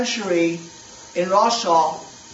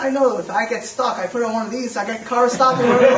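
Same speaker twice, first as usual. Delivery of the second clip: put-on lightly done Puerto Rican accent, laughing at the end; a hint of Puerto Rican accent breaking into a laugh; imitating Puerto Rican accent; 4 semitones higher than usual. Driver explains his yarmulke trick, light Puerto Rican accent with a laugh. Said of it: "The guy has a Puerto Rican accent".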